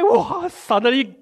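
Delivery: mock fright at a cat; shocked whoa. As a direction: jump at the sudden attack. Acting out shock of attack.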